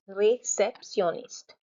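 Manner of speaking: careful French réceptionniste, slightly linked syllables; measured syllables. Shown as a demonstration. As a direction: say réceptionniste slowly and evenly. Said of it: "you stop, huh?".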